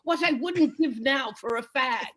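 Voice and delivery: a proper gent after lovemaking; posh English husband. Retold or imitated. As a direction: play the polite British husband. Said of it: "he says to me".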